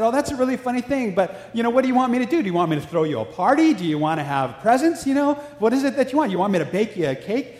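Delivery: high, sarcastic teasing of a friend; mocking friend. Prostitute mocks friend's birthday.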